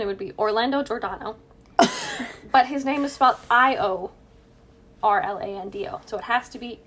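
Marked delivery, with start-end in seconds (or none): 0.4-1.4 English accent. Shown as a demonstration. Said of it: "or in an English accent".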